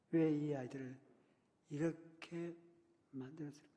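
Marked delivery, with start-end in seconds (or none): none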